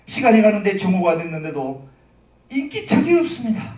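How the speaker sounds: ordinary talk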